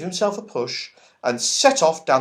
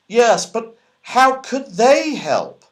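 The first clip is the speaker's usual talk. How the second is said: doubtfully; 13 semitones higher, 7 dB louder, slower than usual. A narrator's reading. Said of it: "asked Moonface doubtfully".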